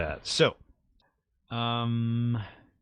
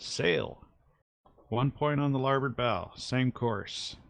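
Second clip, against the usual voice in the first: raised-pitch lookout's call, not shouted; lightly acted call from the masthead; 5 semitones higher, slower than usual. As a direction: call out a sighting to the deck. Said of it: "calls out".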